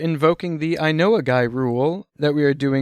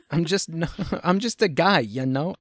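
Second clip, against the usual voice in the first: put-on Italian accent. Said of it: "I can do a bad Italian accent".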